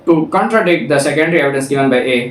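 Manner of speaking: slow, deliberate reading of legal text; reading the statute. Shown as a demonstration. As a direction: read each clause out slowly, like a law book. Reads statute text aloud.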